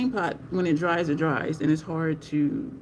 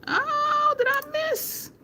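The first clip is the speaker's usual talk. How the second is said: surprised; much slower than usual. Real, not acted. Spots viewers in live chat.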